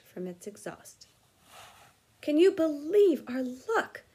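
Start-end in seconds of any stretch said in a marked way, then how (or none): 2.2-4.0 miserable. A narrator's reading. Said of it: "Ron said miserably".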